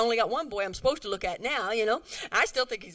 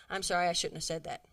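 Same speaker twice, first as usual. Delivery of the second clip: humble apology; 4 semitones lower than usual. Shown as a demonstration. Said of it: "Just humble yourself and say".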